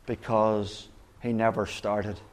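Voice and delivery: slowed down, leaning on never; slow emphatic punchline. Shown as a demonstration. Preacher repeating the punchline to the congregation, slow. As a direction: land each word, stress never. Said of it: "repeated punchline, slower".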